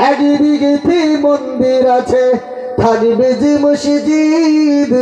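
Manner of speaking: sung in a slightly broken, hoarse voice; hoarse folk singing voice. Shown as a demonstration. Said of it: "একটু ভাঙা গলা নিয়ে নকল করতে চাই".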